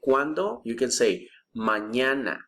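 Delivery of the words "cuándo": 1 rising question. Shown as a demonstration. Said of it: "And we say".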